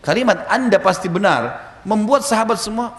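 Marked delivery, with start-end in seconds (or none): 0.5-1.7 high, slow declaration; Abu Bakar. Retold or imitated. Preacher repeats Abu Bakar's line for listeners, proclaiming. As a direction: declare it with drawn-out conviction. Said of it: "teriak dengan suara keras".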